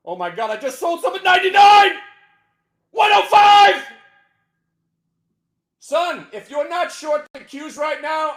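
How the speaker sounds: loud high elated yell; ecstatic shouting. Real, not acted. Trader shouting his sale prices to viewers, ecstatic. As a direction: shout out each fill price.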